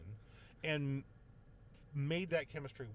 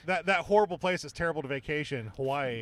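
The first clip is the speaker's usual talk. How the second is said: sarcastic; 7 dB louder than usual. Real, not acted. Ironic about Pearl Harbor.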